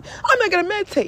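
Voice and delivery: high, whiny mock refusal; hammed-up childish whine; inner child tantrum. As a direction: protest like a bratty child. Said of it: "my inner child having a tantrum".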